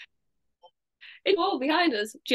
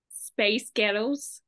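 slow, drawn-out Scottish-sounding demo; much slower than usual. Shown as a demonstration. Showing the trick's result, slowly with a Scottish sound. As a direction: stretch "space ghettos" until it sounds Scottish.

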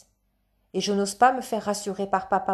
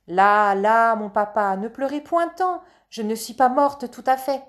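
put-on consoling stage child; 3 semitones higher, 5 dB louder than usual. Child comforts weeping father on stage. (enfant de théâtre qui console, voix aiguë)

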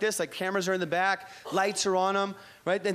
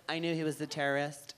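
1 gay dude at the show; 7 semitones lower, 8 dB quieter than usual. Retold or imitated. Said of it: "He was like".

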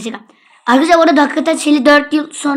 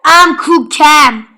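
slow mock phrase; 5 dB louder, much slower than usual. Real, not acted. Repeating a phrase slowly.

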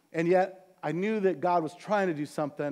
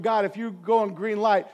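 discouraged prayer; 3 semitones higher, 3 dB louder than usual. Retold or imitated. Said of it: "feeling very discouraged".

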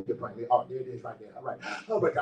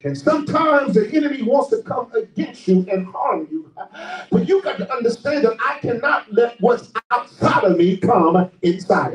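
measured sermon cadence with stretched key words; preacher driving a lesson home; emphatic preaching; 3 semitones higher, 3 dB louder than usual. Real, not acted. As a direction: preach each phrase out deliberately. Preaches on Abraham's trust.

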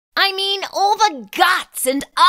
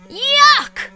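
disgusted; 8 semitones higher than usual. Acted. Thinking of fly barf.

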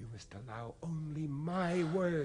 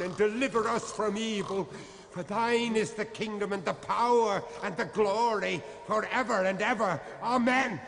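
Lord's Prayer building to a fervent amen. Acted. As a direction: pray it aloud with growing force. Priest prays the Lord's Prayer.

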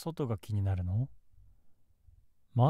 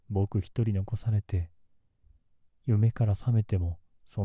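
menacing. Acted. Obsessive outburst, louder.

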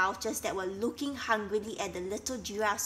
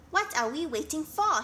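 shouted; 6 semitones higher, 3 dB louder than usual. A narrator's reading. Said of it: "shouted Flocky".

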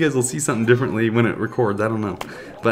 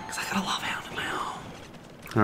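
whispered taunt, almost no voice; sly whisper; 9 semitones higher, 11 dB quieter than usual. Real, not acted. Taunting the opponent about his own Lava Hound, whispered. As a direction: breathe it like a secret threat.

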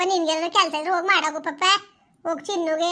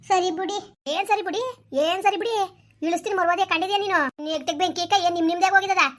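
heated angry retort; 4 dB louder than usual. Acted.

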